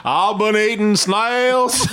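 slow mock redneck take on Australian. Host teasing the guest's attempt, slow redneck-Australian accent. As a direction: stretch it out, laughing, in botched Australian. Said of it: "You sound like a redneck".

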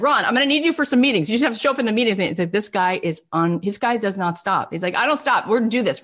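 high, fast driving push; excited. Retold or imitated. Brian driving Ron to meetings, high and relentless. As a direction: unstoppable hustle.

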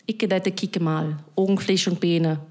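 Berlin dialect, demonstrated matter-of-factly; Berlin accent. Shown as a demonstration. Showing the accent mistaken for East German, Berlin dialect. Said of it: "That accent was Berlin".

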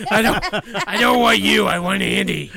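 lightly voiced pouting child; baby voice. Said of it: "Keep talking in the baby voice, please".

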